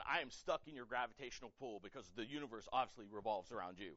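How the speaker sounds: dry sarcastic teasing in an altered voice; sarcastic mock. Teacher teasing a self-absorbed student, sarcastic deadpan. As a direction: tease her, deadpan and mocking. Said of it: "I start running around them in circles".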